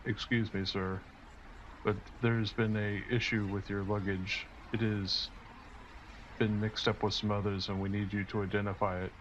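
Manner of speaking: flat monotone delivery. Acted. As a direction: drone it with no tune. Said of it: "his monotone voice is like".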